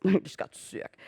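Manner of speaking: amused, half-laughing retelling of getting sick. Real, not acted. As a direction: giggle at your own misery as you say it. Repeats the phrase after laughing.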